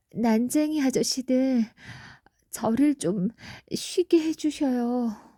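trembling, quavering voice. Shivering in a winter forest, calling to three dwarfs for shelter, in a trembling voice. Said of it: "떨리는 목소리로 불렀죠".

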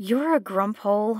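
muttered under the breath. Held tight by the narrator, she speaks, muttered under her breath. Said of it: "she mutters under her breath".

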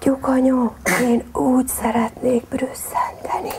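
hushed, secretive whisper under the breath. Hiding in a jug from a tomcat, a little hen whispers to her mother. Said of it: "elkezdett csuttogni".

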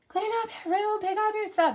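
high, shouted yelling. Parent recalling the night before the cleaning lady comes, imitating yelling at kids. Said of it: "I'm like yelling at my kids".

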